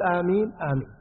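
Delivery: quiet murmured amen; hushed congregant amen; soft amen. Shown as a demonstration. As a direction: say amen softly under your breath. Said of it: "ويقول".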